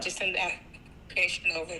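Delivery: garbled, breaking-up call audio; choppy connection. Real, not acted. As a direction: voice cutting in and out. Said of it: "I think you're breaking up".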